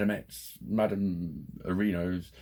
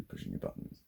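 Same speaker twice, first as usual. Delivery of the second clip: breathy whisper, much lower and softer; 11 semitones lower, 9 dB quieter than usual. Shown as a demonstration. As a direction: say pushing your buttons under your breath. Repeats the exercise name hushed.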